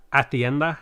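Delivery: "hacienda" with a lisped Spanish c. Shown as a demonstration. Streamer trying the Spanish lisp on "hacienda", lisped c. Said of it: "like, the Spanish lisp".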